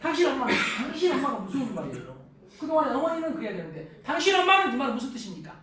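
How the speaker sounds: mildly heated mock complaint; a touch of acted indignation; wife fed up with mother-in-law. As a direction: confront your husband, lightly hammed up. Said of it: "시어머니한테 열받아가지고".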